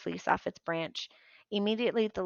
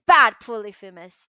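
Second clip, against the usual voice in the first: scolding Tyson; 12 dB louder than usual. Acted.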